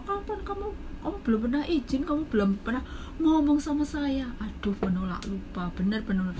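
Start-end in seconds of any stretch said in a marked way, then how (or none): 0.0-4.3 high, rising boss denial getting louder; imitating the boss, higher and building louder; mock angry boss. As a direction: play the boss flatly denying it, pitched up. Forgetful boss voiced denying.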